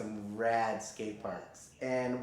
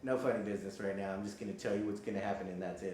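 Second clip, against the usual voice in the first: blunt doctor; 3 semitones lower, 5 dB quieter, much faster than usual. Retold or imitated. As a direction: lower and fast, no-nonsense. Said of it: "he's so straightforward".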